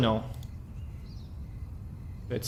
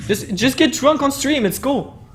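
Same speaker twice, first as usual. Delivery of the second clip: laughing; 10 semitones higher than usual. Real, not acted. Joking suggestion, laughing while speaking.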